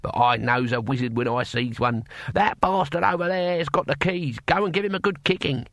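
lightly voiced rustic old man, pitch climbing; a touch of crusty old warrior; feisty old man, knowing. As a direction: give bossy orders as a wily old-timer. Old man instructs Rincewind.

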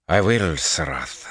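slow, composed answer; calm reply. A narrator's reading. Officer answering his commander's demand, calmly. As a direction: answer a superior with measured calm. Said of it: "he replied calmly".

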